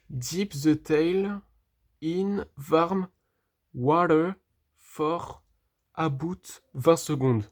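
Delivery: slow French-accented English read off the sheet; halting French-accented English; bad English accent. Real, not acted. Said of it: "mon accent anglais est vraiment pourri".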